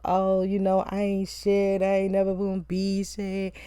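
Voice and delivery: imitating a fake, tearless cry; mock cry voice. Reviewer mimicking drunk husband talking himself down, mock cry voice. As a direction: drag it out in a half-hearted whine of crying. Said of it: "He's doing the cry voice".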